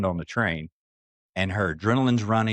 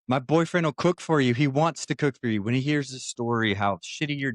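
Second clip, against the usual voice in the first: higher, insistent coaxing; pleading, pitched up; passionate retold persuasion; 4 semitones higher than usual. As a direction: act out eager persuading. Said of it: "she starts getting more passionate about it".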